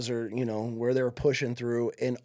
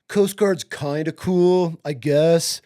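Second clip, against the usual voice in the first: dismissive drawl; 3 semitones higher, 4 dB louder, much slower than usual. Retold or imitated. Recruiter belittling the Coast Guard to sell Marines, mocking drawl. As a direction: sneer at the Coast Guard, dragging it out.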